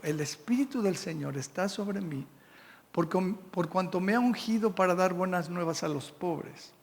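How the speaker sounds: solemn, emphatic Bible reading; scripture reading. Acted. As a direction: proclaim the passage to the congregation. Preacher reads Isaiah from Luke.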